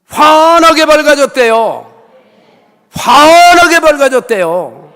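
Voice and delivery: loud, slow, drawn-out proclamation; emphatic proclaiming. Real, not acted. Preacher proclaiming the healed eyes to congregation: loud, slow. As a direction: declare the miracle to the hall.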